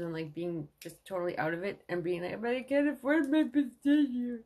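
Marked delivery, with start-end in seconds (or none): 2.4-4.4 dazed. Retold or imitated. Retelling being out of it.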